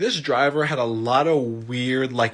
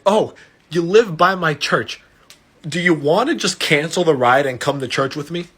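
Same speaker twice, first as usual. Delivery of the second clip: eager invitation; 4 semitones higher, 4 dB louder than usual. Retold or imitated. Retold driver eagerly invites to church.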